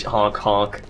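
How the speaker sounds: slow goofy honk honk; silly clown honk. Pretend. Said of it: "you ruined the moment".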